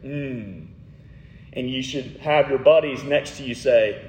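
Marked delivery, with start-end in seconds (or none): 0.0-0.7 mock savoring hum. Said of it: "that pizza where you say".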